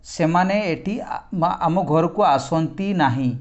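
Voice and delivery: unhurried teacher demo; slow example sentence. Shown as a demonstration. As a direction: read the example slowly for the class. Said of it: "ଆଉ ଗୋଟେ ହେଲା ଦେଖ".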